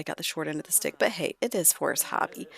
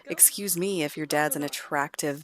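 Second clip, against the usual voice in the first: indignant, raised-pitch retort; arguing back. Acted. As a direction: defend yourself with mock offence. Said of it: "argue a little bit".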